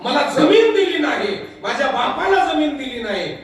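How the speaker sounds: mock yelling at God. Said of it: "भगवंतासमोर येऊन जर ओरडत असाल".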